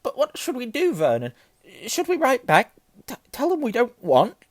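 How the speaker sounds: high, loud, stammering panic; quivering voice. A narrator's reading. Aunt asks husband what to do, quivering. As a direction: fret at him in a high quaver. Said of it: "saying in a quivering voice".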